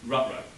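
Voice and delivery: "Rutrow", uh-oh with added R sounds; Scooby-Doo pronunciation. Retold or imitated. Lecturer showing Scooby's added R, "Rutrow" for uh-oh. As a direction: put an R before each vowel of uh-oh, "Rutrow". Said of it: "with the addition of an R sound".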